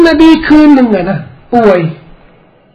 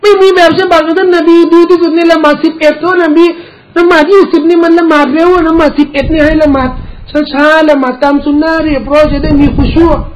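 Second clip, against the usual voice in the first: higher-pitched protest, imitating past debaters; re-enacted objection, pitched up; mock arguing; 5 semitones higher than usual. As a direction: object as if in an old dispute. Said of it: "แต่ก่อนนู้นนะเขาสู้กันน่ะ".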